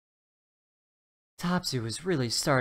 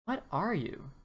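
put-on curious young dino voice, pitched up; wide-eyed little dinosaur asking; Topsy the dinosaur; 5 semitones higher than usual. Little dinosaur meets a leprechaun, pitched-up curious voice.

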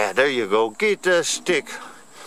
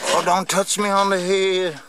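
voicing the turtle; 5 semitones higher than usual. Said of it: "He's like".

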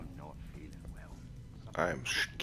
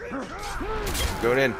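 much higher, very slow and loud; dramatic slow-motion voice; 5 dB louder, much slower than usual. Pretend. Charging into attack.

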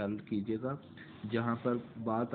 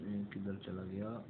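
quiet, softer aside to self; muttering to self; 3 semitones lower, 6 dB quieter than usual. Real, not acted. Teacher to self, wondering where something went, muttering. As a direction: drop the volume, as if thinking aloud.

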